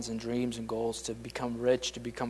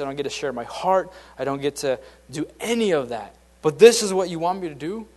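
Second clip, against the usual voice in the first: earnest resolve; 2 semitones higher, 5 dB louder than usual. Retold or imitated. Humble servant speaking to God.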